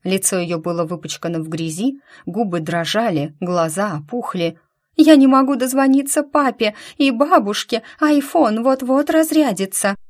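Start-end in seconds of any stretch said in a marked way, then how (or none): 5.0-10.0 high, loud, breathless panic; panicked tearful gabble. A narrator's reading. Stranded girl begs Lika for help, high panicked tearful gabble. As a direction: rattle it off between sobs. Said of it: "Принялась тараторить она".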